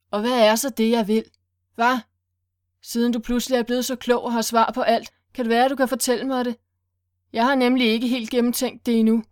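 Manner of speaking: loud, fast sneering questions; mocking taunt. Willy mocks Sylvester for having all the answers, sneering. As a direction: taunt him with fake curiosity.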